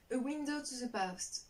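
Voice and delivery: slow attempt at an English accent. Shown as a demonstration. French vlogger reading an English book title, careful English accent. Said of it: "mon accent anglais qui est ouf".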